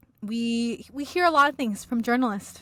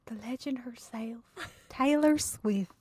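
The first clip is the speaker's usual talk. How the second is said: grand announcer voice. Pretend. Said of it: "I'm so horrible at that".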